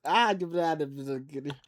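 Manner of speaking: put-on loose, amateur Australian accent; attempted Australian accent. Streamer practising the punishment accent, attempted Australian. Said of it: "have to do an Australian accent".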